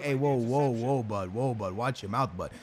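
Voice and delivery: low, put-on voice, mock hurt; imitating Messi. Imagined Messi telling off a mocking fan, low mock scolding. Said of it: "Imagine Messi watching".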